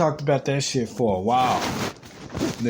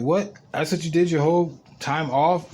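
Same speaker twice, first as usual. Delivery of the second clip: retold disbelief; 3 semitones higher than usual. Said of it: "I was like".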